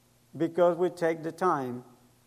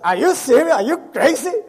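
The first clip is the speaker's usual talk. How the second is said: higher, louder, laughing through it; mock-incredulous friend, half laughing; laughing disbelief; 7 semitones higher, 6 dB louder than usual. Friend Noel laughing at the idea he is a pastor, incredulous.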